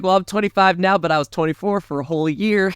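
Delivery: a light, jokey Southern drawl for Dewey; lightly put-on Southern drawl, mocking. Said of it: "I don't know why I gave him a Southern drawl".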